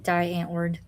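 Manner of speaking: "Die" said like English "die"; mispronounced Die. Retold or imitated. Recalling an earlier slip with the band name, "Die" as English "die". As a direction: say "Die" to rhyme with "eye". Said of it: "Yeah, it's D for German".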